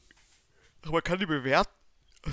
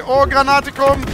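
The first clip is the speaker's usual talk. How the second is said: loud, slow, higher warning call; grenade warning yell; 7 semitones higher, 7 dB louder, slower than usual. Real, not acted. Warns of incoming grenade.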